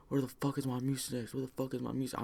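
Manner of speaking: high-pitched imitation of an irate grandpa; mock agitated demand. Grandpa runs over hunting his missing pills, mock agitated demand.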